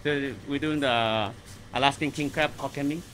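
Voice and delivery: muffled by a face mask; talking through a kitchen mask. Real, not acted. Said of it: "Excuse the mask here".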